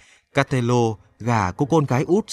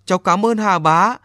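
put-on grateful boy; 6 semitones higher, 3 dB louder than usual. A narrator's reading. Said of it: "miệng nói".

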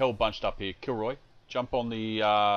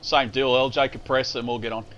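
shouting orders; 3 semitones higher, 7 dB louder than usual. Real, not acted. Calling orders across the field.

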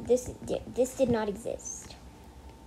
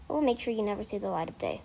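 mock threat; 3 semitones lower, much faster than usual. Mock threat to hacker friend.

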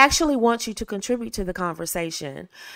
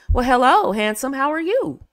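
higher, bright flirtatious hello; flirty greeting; 5 semitones higher, 3 dB louder than usual. Shown as a demonstration. Woman on a first call to a man, flirty and upbeat. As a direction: greet him like you're glad he called. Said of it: "For example".

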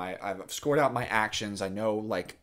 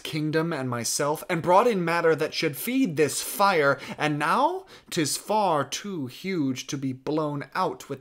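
forceful stage reminder, slowing at the end; Louis the Dauphin. Acted. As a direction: drive the accusation home, then ease off. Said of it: "to drive home and to remind and to underscore".

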